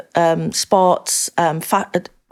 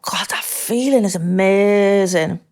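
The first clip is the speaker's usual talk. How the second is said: whispered thought; slower than usual. Retold or imitated. Inner thought of first drink.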